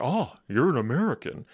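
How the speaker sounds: lightly imitated exaggerated American accent; a hint of a villain putting on American; Heisenberg. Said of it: "trying to speak with an American accent".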